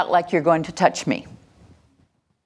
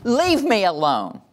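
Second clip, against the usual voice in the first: slow, sulky push-away; a mild sulky leave me alone; upset child; 4 semitones higher, slower than usual. Shown as a demonstration. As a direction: turn away from them with it. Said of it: "I'm gonna go".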